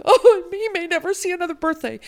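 high, loud melodramatic wail; dramatic. Retold or imitated. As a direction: deliver it like a tragic heroine. Dramatic mom at hospital desk.

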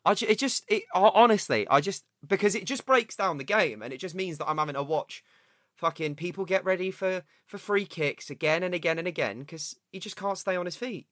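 worked-up footy rant; vent, heated and exasperated; fuming. Real, not acted. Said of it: "you're absolutely fuming".

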